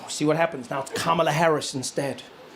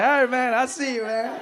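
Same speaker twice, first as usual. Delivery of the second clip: imitating cool Biden; 6 semitones higher than usual. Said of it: "He's like".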